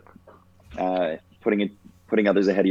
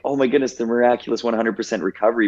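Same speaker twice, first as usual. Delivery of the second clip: higher, quick mock gushing; mildly mock amazed; 4 semitones higher, faster than usual. Disclaiming a story of miraculous recovery, mildly mock amazed. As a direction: lightly parody an awestruck reaction.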